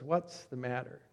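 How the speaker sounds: soft, low gentle question; hushed, tender concern. Retold or imitated. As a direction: ask softly, with care for someone crying. Priest softens as woman cries.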